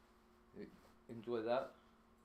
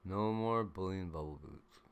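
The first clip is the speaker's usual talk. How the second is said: mock stern scolding; 12 dB louder than usual. Loud mock-stern talk to animals.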